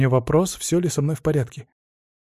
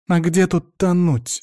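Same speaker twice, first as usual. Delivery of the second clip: snapping back; 4 semitones higher, slower than usual. Acted. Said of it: "огрызнулась Марьяна".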